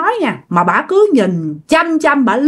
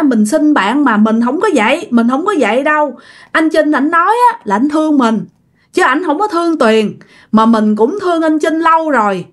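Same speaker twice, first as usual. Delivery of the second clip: acted weepy explanation, pitch raised; earnest, plaintive higher voice; tearful, sincere pleading; 5 semitones higher than usual. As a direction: plead your innocence to a friend as if crying. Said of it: "vừa nói vừa khóc mà rất là thật lòng".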